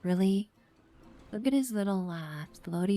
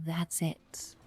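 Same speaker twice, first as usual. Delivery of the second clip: whisper. Acted. End of one-shot line.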